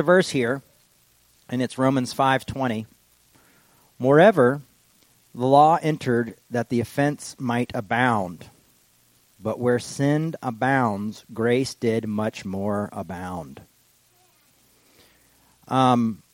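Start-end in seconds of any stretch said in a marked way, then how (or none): 4.0-13.6 scripture reading. Acted.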